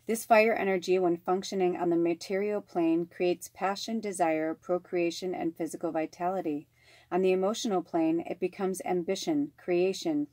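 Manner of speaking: measured, even oracle-card reading voice. Acted. Reading a spirit card to her viewers, measured and even. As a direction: read the card's message steadily, like a ritual.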